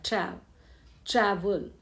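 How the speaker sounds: "ट्रैवल" with the stress on ट्रै; first give "ट्रैव-" alone, then "ट्रैवल" leaning on its start; first-syllable stress. Shown as a demonstration. Teacher showing the stressed first syllable, stressing ट्रै. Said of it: "पहला syllable है उस पर stress".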